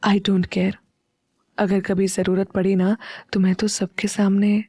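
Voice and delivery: tenderly, almost under the breath; lovingly. Acted. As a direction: murmur it close to his ear. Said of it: "बहुत प्यार से बोली".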